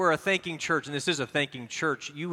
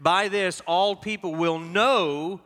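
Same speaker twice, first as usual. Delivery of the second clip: reading aloud together; 5 semitones higher, 3 dB louder than usual. Shown as a demonstration. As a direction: carry the room along. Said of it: "read with me".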